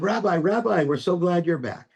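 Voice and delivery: joyful greeting. Acted. Crowd greets returning rabbi.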